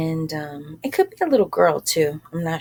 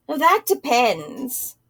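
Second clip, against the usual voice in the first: put-on girl's reply; 6 semitones higher, slower than usual. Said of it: "She replied".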